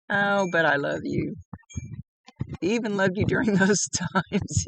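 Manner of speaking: real giggle breaking into the words; giggling. Real, not acted. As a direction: tease affectionately through a giggle. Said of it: "kinda giggling like I am".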